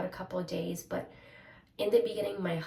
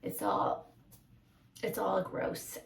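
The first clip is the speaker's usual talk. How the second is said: stuffy, congested voice; blocked nose; slower than usual. Real, not acted. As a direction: talk through a blocked nose. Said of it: "very congested".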